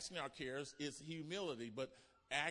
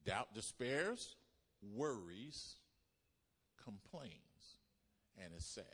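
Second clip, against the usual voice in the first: sinking into sadness; 3 semitones lower, slower than usual. Acted. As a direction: let each word drop lower and fade. Preaching doubt's gloom.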